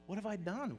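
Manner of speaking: soft, hushed regret; quiet anguish. Acted. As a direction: breathe it out, broken and alone. Peter weeping alone.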